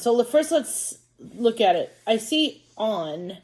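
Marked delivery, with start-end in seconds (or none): 2.8-3.4 "on" with a short O, as in hot; short O sound. Shown as a demonstration. Teacher trying a first vowel sound for pupils, short O. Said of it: "I'm gonna try you saying on".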